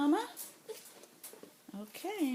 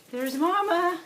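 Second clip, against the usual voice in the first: high coaxing puppy voice; 4 semitones higher, 3 dB louder, faster than usual. Real, not acted. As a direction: sweet-talk the pups along. Calling puppies to mother dog.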